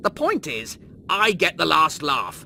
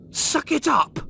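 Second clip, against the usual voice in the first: shouted retort; 11 semitones higher, 5 dB louder, slower than usual. Acted. Rimmer shouting at Lister to get over it. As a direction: suck it up, shouted high and loud. Rimmer snaps the phrase again.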